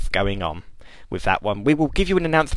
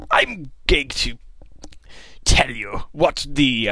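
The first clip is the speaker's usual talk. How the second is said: whispered; 4 semitones higher, slower than usual. Pretend. Teasing announcement.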